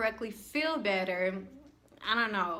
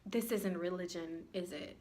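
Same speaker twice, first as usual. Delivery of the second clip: soft, low confused question; softer mock of a puzzled student; mock dumb question; 3 semitones lower, 8 dB quieter than usual. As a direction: ask it quietly, baffled. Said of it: "he's like".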